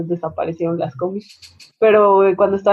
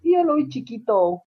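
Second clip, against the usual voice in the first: mock chatty mother on the combi; proud gossiping mother; 6 semitones higher than usual. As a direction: boast to a stranger about your kid. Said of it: "O de los hijos".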